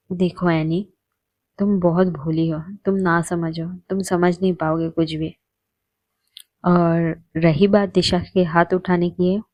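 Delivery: calm her down gently; lovingly. Acted. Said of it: "Lisa बहुत प्यार से एनी को". (प्यार से धीमे समझाती)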